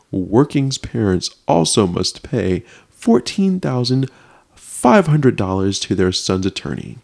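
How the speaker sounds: theatrical article read-out; dramatic reading. Acted. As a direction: draw out the figures with weighty pauses. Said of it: "I wanna get dramatic with it".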